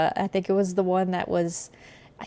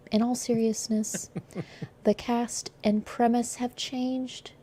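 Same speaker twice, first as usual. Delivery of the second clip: soft, breathy ASMR reading; 4 dB quieter than usual. Pretend. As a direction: read it close and hushed like ASMR. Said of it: "We're gonna go full A S M R".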